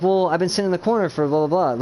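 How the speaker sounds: Keegan imitation. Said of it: "I would sound like Keegan a lot".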